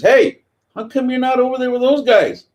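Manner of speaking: high, loud barking chief voice; mock military chief calling out; gruff chief. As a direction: bark it like the chief yelling down at him. White chief voiced in story.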